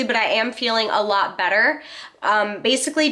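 congested, nasal sick voice. Real, not acted. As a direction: talk through a blocked nose. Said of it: "my voice is still a little nasally".

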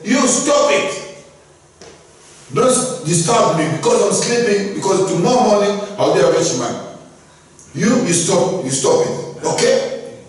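annoyed sleepy man. A narrator's reading. Rich man scolds his barking dog, irritated and high. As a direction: snap at the dog to shut up.

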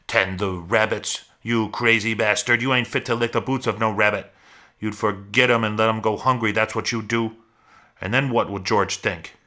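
lightly voiced scornful scold; mild contempt in a character voice; berating rabbit. Imagined giant rabbit mocks Lenny about tending rabbits, scornfully.

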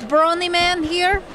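put-on light, slowed Russian assassin accent; a hint of a Russian killer, unhurried and teasing. Host asks her to answer in Russian accent. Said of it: "Say it in a Russian voice".

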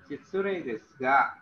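slow, polite "Shitsure desga"; slow polite opener. Shown as a demonstration. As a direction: ease in with an apology. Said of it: "dalam bahasa kita maaf, maaf, permisi".

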